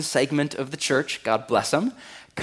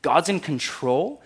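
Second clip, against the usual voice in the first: incredulous question; 3 semitones higher, slower than usual. Shown as a demonstration. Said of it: "it's wrong".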